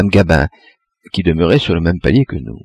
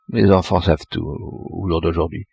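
muttered under the breath, much softer; muttering to herself; 3 semitones lower, 6 dB quieter than usual. A narrator's reading. Old neighbour muttering about children, mumbled softly. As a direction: grumble it half to yourself. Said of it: "parler entre ses dents".

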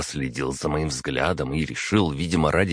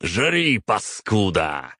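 angry yell; 4 semitones higher, much slower than usual. Acted. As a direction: spit it out, dragging the insult. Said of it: "крикнул Батори".

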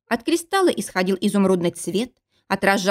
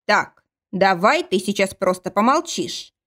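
sighing. Acted. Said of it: "вздохнул он".

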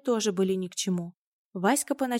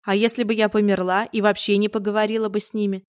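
stern scolding; 2 semitones higher, 5 dB louder than usual. Acted. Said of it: "грозно обернулась".

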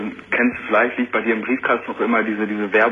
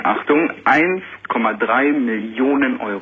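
slow, drawn-out jackpot reveal; shrieking jackpot winner; slower than usual. Real, not acted. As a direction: announce the sum slowly, savouring it. Announcing his lottery win.

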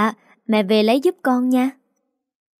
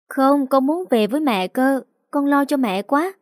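put-on a higher, lighter child's voice, pleading; little girl voice; 5 semitones higher than usual. Little girl begging to sleep with her teddy bear, higher, childlike. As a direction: play a clingy little daughter.

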